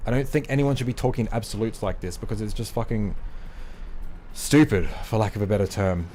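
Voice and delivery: breathless after a rant; winded from talking fast; out of breath. Real, not acted. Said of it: "Man, I'm out of breath".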